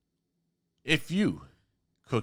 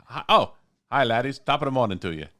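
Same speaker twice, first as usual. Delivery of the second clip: badly attempted Irish accent; 4 semitones higher, 3 dB louder than usual. Shown as a demonstration. Host signs off to chef guest, bad Irish accent. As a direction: have a go at a poor Irish brogue. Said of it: "my bad accent".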